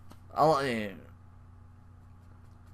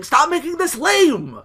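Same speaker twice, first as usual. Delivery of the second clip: high, slow mock whine; whiny complaint; 14 semitones higher, 5 dB louder, slower than usual. Fan complaining about a chant, high whine. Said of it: "And I'm like".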